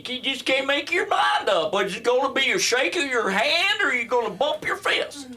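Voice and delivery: very high, strained comic rant; hammed-up indecision. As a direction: squeal through the dilemma in mock exasperation. Comic hams up a greeting dilemma.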